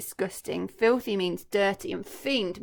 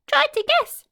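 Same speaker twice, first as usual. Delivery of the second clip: much higher, louder playful tease; teasing crocodile; 10 dB louder than usual. Acted. Crocodile teasing Humpy Rumpy, high and playful. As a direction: dangle the riddle gleefully.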